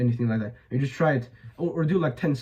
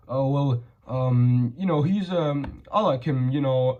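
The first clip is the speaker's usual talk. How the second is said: hesitant, halting answer full of ums; mock a meek guy who can't speak up; timid mumbling; slower than usual. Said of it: "If you talk like a little bitch".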